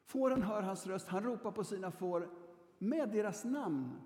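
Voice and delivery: full reading of the passage to the congregation; scripture reading. Shown as a demonstration. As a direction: proclaim the verse to the flock. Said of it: "alltså, du och jag är fåren då".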